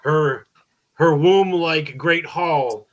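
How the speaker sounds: slow, booming Viking warrior. Retold or imitated. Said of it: "Viking voice".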